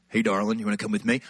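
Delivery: low-voiced chat-up line; smooth suitor. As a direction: drop your voice to woo her. Acting smooth date invitation.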